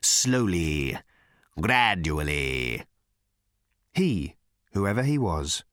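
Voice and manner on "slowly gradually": creeping nightmare whisper. Acted. Creature drawing out its awakening.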